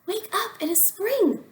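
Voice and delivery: high calling shout; shouting Frog. A narrator's reading. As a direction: call him out of the house. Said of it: "shouted Frog".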